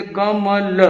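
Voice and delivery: each syllable said apart, with gaps; letter by letter. Shown as a demonstration. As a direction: open up every letter separately. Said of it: "एक एक अक्षर को खोल खोल के".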